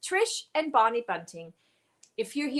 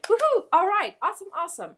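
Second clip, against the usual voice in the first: cheer; 11 semitones higher, 4 dB louder, much faster than usual. Real, not acted. Cheering a viewer's excited reply.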